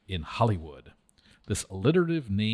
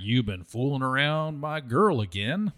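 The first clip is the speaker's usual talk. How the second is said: accusing; 4 semitones higher than usual. Acted. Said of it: "the short and wiry Ward said accusingly".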